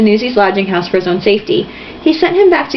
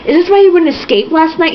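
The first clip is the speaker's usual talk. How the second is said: mock shout; 7 semitones higher than usual. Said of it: "he shouted".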